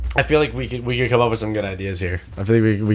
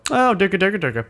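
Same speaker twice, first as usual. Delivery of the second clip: impressed guards; 10 semitones higher than usual. Retold or imitated. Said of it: "the two guards go".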